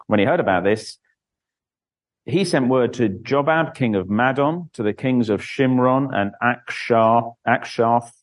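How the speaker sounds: measured Bible reading aloud; formal church reading; scripture reading. A narrator's reading. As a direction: read it out as scripture to a congregation. Reads Bible chapter aloud.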